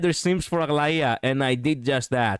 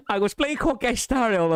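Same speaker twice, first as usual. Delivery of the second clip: laughing; 9 semitones higher than usual. Real, not acted. Laughing at own memory while telling.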